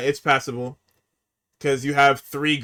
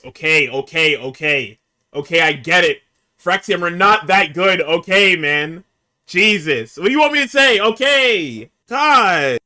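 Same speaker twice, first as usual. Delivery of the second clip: exasperated; 3 semitones higher, 5 dB louder than usual. Real, not acted. Exasperated rant at promo.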